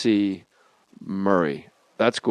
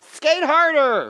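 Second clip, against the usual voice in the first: slow, high bellow at the players; big drawn-out fan yell; arena-filling heckle; 13 semitones higher, slower than usual. Retold or imitated. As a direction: heckle the team from the stands. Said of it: "fill Madison Square Garden with his voice".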